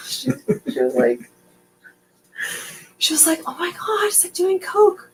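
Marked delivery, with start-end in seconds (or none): 3.5-5.1 laughing imitation. Sister's gleeful reaction retold.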